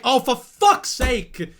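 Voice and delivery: annoyed mom. Retold or imitated. Streamer mocking the annoyed mum after her baby's fall. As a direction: sigh it out like the fall spoiled the video. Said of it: "Not like".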